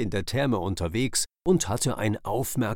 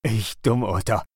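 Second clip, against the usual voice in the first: relieved cheerful call, a bit louder; happy exclamation; 3 dB louder than usual. Acted. Otter finds his goggles, calls out happily. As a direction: laugh at yourself in relief. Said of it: "rief Otto glücklich".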